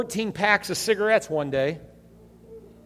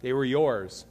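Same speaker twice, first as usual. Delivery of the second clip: low, small retold answer; a touch of meekness, voice dropped; sheepish kid; 4 semitones lower, 6 dB quieter than usual. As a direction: imitate a child owning up quietly. Child answering his furious dad.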